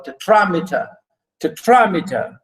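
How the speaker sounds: "tetrameter" stressed on the second syllable; proper pronunciation. Shown as a demonstration. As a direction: say "tetrameter" as te-TRA-me-ter. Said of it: "the proper pronunciation".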